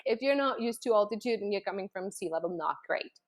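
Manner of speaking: usual speaking voice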